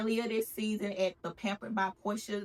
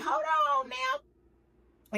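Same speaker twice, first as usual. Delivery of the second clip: slow disbelief; 6 semitones higher, much slower than usual. Retold or imitated. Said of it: "they like".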